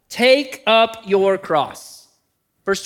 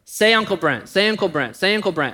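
desperate pleading. Retold or imitated. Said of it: "So I'm just desperate".

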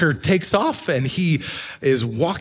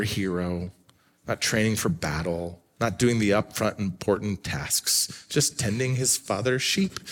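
quiet sermon; 4 semitones lower, 5 dB quieter than usual. Acted. Quiet reflective sermon passage.

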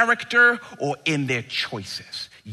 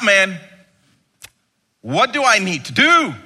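put-on louder, higher pleading young man; a frantic seeker begging the teacher; hammed-up panicked seeker crying out to Jesus; 4 semitones higher, 6 dB louder than usual. Rich young man voiced pleading.

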